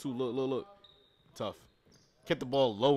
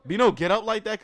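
stunned disbelief; 8 semitones higher, 7 dB louder than usual. Real, not acted. Stunned by a dunk.

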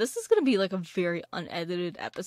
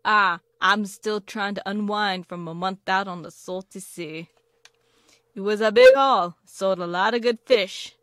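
a hammed-up pirate greeting, louder; lightly voiced pirate, louder at the start; terrible pirate voice; 7 dB louder than usual. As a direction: play a badly done old sea dog hailing a newcomer. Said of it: "That is a terrible pirate impression".

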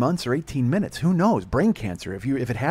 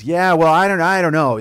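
disapproving mother; 6 semitones higher, 11 dB louder than usual. Retold or imitated. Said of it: "She goes".

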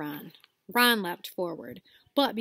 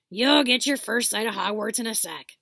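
louder called-back line; calling over shoulder; 2 semitones higher, 7 dB louder than usual. Acted. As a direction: call back to them. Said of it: "Hagrid called over his shoulder".

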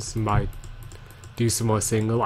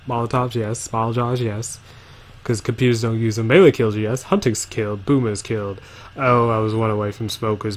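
announcer voice. Shown as a demonstration. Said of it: "let me do my announcer voice".

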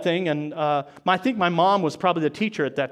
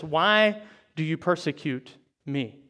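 slower, softer, solemn voice of Jesus; 4 semitones lower, 4 dB quieter than usual. Acted. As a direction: let Jesus speak gently and slowly. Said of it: "This is Jesus talking, and he says".

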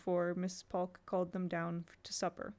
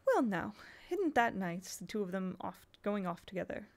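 sentimental. Acted. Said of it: "Missus Polk said sentimentally".

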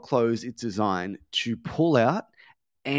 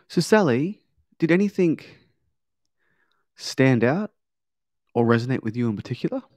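curious questioning; 2 semitones higher, 4 dB louder than usual. Shown as a demonstration. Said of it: "it's a questioning tone".

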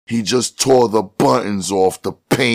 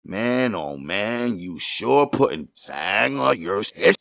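high, softer teasing voice; soft jeering; 6 semitones higher, 4 dB quieter than usual. A narrator's reading. Jimmy teasing Tiny, soft jeering. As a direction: rib him quietly.

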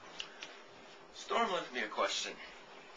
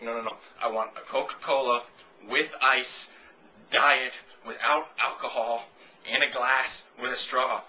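louder, emphatic customer spelling out every detail; insistent order; 7 dB louder, slower than usual. Pretend. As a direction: bark out each item of the order. Acted over-specific customer order.

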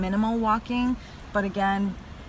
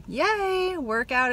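excited; 7 semitones higher, much slower than usual. Real, not acted. Celebrating finished workout.

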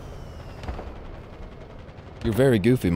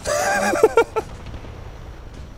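high squeaky wheeze laugh; 4 dB quieter than usual. Pretend. Mock sobbing laugh.

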